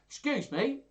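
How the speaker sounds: high, put-on servant-as-gentleman voice; Tranio. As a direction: pitch it right up to butt in. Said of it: "Tranio, he spoke like that".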